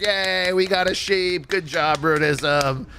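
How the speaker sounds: high, sing-out group cheer; mock cheering. Group clapping for a teammate's sheep, mock cheer. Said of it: "we were, like, clapping".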